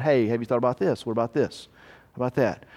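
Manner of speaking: low, soft suggestion; lightly voiced quiet inner nudge; Holy Spirit prompting. Holy Spirit speaking to a believer, low soft prompting. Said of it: "Holy Spirit who's speaking to you".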